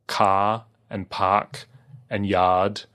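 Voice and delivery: car and park and yard with no r sound, long open ah; Australian accent. Shown as a demonstration. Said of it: "we say, for example".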